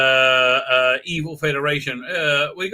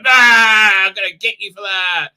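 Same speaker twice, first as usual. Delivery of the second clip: mock threat; 3 semitones higher, 6 dB louder than usual. Raffi threatens the attacker.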